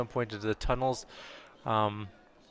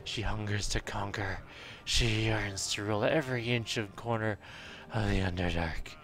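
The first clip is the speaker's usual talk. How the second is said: Batman. Acted. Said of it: "Now I've gone Batman".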